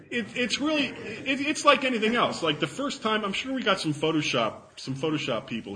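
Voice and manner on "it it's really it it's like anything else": talking through laughter, pitched up; laughing. Real, not acted. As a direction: laugh your way through the line. Laughs while explaining.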